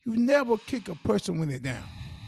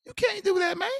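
retold protest; 9 semitones higher than usual. Talking a man out of hurting his woman, retold protest. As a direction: imitate talking a friend down.

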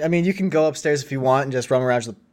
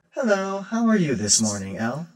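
droid greeting; 5 semitones higher than usual. Acted. GM voices Rosie greeting El.

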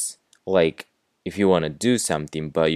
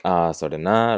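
mildly empathetic example reply. Shown as a demonstration. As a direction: agree with feeling, demonstrating empathy. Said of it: "like that, with the empathy on it".

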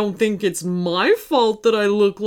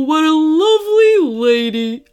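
lovesick, dreamy admiration; 6 semitones higher, 7 dB louder than usual. Acted. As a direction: sigh it out dreamily. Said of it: "he said dreamily".

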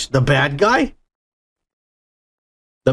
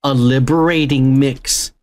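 quoted character; 4 semitones lower, slower than usual. Retold or imitated. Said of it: "And he's like".

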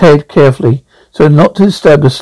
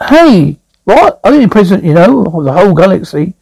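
indignant boast; 3 semitones higher than usual. Acted. Zaphod indignantly boasting to great-grandfather.

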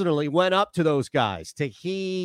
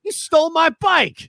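movie character line; 10 semitones higher, 4 dB louder than usual. Retold or imitated. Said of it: "I remember you".

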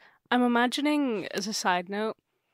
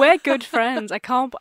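loud, higher hammed-up insistence; mock outraged wife; 4 semitones higher, 10 dB louder than usual. Wife insists she and the ghost are friends, mock outraged. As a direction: insist loudly, as if outraged in play.

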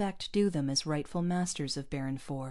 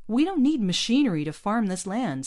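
higher, louder eager burst; eager farmer's pitch; 5 semitones higher, 7 dB louder than usual. A narrator's reading. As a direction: rush in with the idea. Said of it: "said Mario eagerly".

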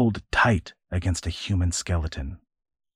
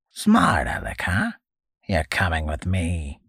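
"Smart aleck" whispered sharply, SMART falling; whispered sneer. Acted. Old man sneering at the boy, whispered.

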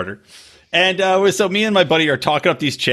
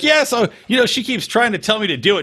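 lightly mimicked friend, pitched up; imitating a buddy; 7 semitones higher than usual. Buddy recounting his failed hookup, imitated in a higher pitch. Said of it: "he's like".

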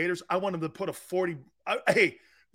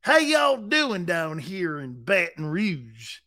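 Southern drawl; slower than usual. Retold or imitated. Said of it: "You think he's Brian Kelly?".

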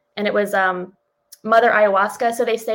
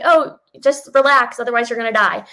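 Hermione soothing. Retold or imitated. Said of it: "Hermione's like".

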